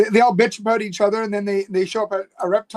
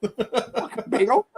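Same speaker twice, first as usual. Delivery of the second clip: imitating the clip; 3 semitones higher, 4 dB quieter, much slower than usual. Repeating the clip's bagel line.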